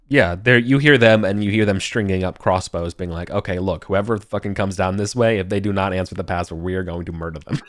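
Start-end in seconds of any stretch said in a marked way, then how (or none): 3.3-7.6 lightly voiced guard, casually laying down the rule; nonchalant guards. Guards stringing crossbows warn each other about the password, nonchalant. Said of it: "being pretty nonchalant about it".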